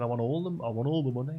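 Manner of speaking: hammed-up wisher demanding the lot; greedy demand. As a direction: push it out loud and greedy. Greedy man demands all the money.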